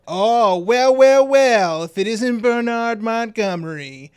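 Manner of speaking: put-on high, drawn-out American accent greeting a rival; loud, gloating American-accented villain; hammed-up American accent. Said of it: "giving Claude here a American accent".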